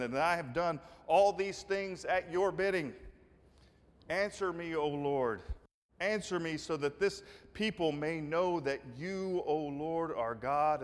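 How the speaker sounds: fervent prayer. Retold or imitated. Elijah's prayer on the altar.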